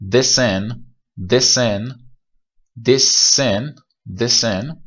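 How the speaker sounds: this sin with a held s, repeated with rising tune. Shown as a demonstration. Teacher drilling this sin for the class. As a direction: hold the s in this sin. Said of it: "ولی این یکی".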